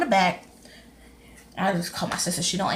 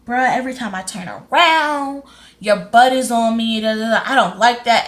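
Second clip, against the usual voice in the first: imitating loud complaint; 6 dB louder than usual. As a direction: complain loudly for everyone to hear, quoting him. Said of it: "he's saying it loud so everybody can hear him".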